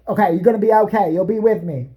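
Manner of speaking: reassuring Carole. Retold or imitated. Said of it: "Carole to injured worker".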